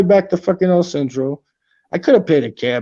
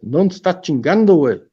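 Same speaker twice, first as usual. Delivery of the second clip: Mexico City slang; 3 dB louder than usual. Retold or imitated. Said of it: "And that's in Mexican dialect".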